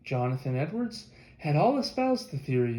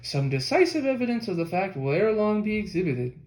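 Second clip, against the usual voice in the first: a touch higher, pressing the point home; pointedly; 4 semitones higher, 3 dB louder than usual. Retold or imitated. Narrator quoting Ethan Smith's prediction, pointed and emphatic. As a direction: drive the conclusion home. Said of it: "Ethan Smith said pointedly".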